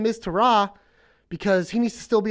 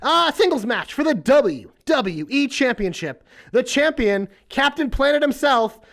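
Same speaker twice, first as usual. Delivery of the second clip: ring announcer; 3 semitones higher than usual. Pretend. Announcer reading the match card.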